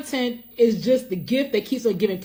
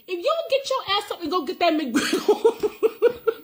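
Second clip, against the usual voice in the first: mock scolding; 6 semitones higher than usual. Mock scolding while cracking up.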